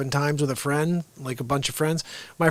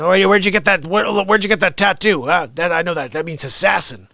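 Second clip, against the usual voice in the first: taunting cop; 3 semitones higher, 5 dB louder than usual. Retold or imitated. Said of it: "He goes".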